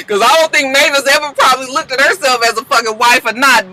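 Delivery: high, laughing words; laughing while talking. Real, not acted. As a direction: talk through laughter.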